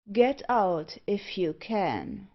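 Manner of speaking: lightly menacing, slowing at the end; taunting unseen voice. Acted. Unseen speaker taunts the trapped pair, menacingly. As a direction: taunt them, dragging the last words.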